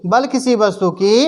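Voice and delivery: teacher leads a line for the class; call and repeat. Shown as a demonstration. Teacher reading out for students to repeat after. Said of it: "मेरे साथ बोलिए".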